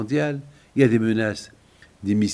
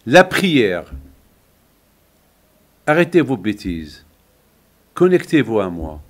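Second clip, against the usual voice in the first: forceful, louder call to the congregation; loud exhortation; 2 semitones lower, 7 dB louder than usual. Acted. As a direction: proclaim it like a preacher. Preacher calls out exhortation.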